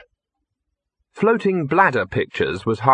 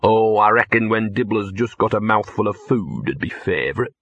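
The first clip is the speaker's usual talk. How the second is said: nasty grin. Acted. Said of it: "Gaspode grinned nastily".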